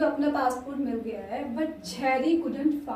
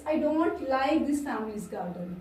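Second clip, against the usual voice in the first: slow dictation; much slower than usual. Shown as a demonstration. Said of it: "slow dictation of example".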